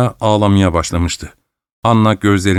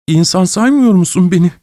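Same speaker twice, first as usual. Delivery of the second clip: high, hurt quavering question; wounded wife asks her husband, trembling; hoarse trembling voice; 9 semitones higher than usual. Acted. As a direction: ask it with a shaking voice. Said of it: "hırıltılı, titrek bir sesle".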